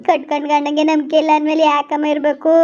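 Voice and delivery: sobbing lament; crying. Acted. Wife asking the elder why live when her husband distrusts her, sobbing. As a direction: ask it while breaking into tears.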